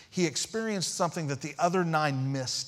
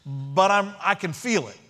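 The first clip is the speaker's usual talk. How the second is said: raised, insistent mock apology; loud, higher, put-on protesting; mock excuse-making; 4 semitones higher, 4 dB louder than usual. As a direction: pitch it up, hypothetically making lame excuses. Imagined Jesus giving a lame excuse.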